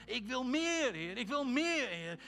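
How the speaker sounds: loud, high cry of longing. Real, not acted.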